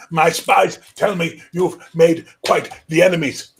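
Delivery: put-on high, loud old king's voice. Old king summoning the young high king closer. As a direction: croak it out like an ancient ruler.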